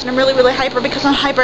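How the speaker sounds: fast, hyper run-on; talking really fast. Real, not acted. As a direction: rush it like you're wired on soda. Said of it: "I'm talking really fast".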